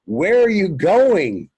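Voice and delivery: high, slow, surprised call after someone. Retold or imitated. Friend calls after him as he walks away, high slow surprised call.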